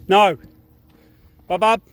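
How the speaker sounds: loud high call of the dog's name; loud urgent call; yelling at dog. Real, not acted. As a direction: call him back sharply. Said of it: "have to yell at him".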